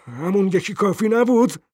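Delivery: high, indignant challenge; angry question. A narrator's reading. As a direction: demand it crossly, pitch rising to the end. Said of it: "مرد با خشم پرسید". (با خشم)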